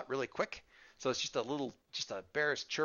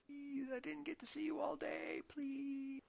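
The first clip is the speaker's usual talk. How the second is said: put-on little kid voice; 14 semitones higher, 8 dB quieter than usual. Little sister begging.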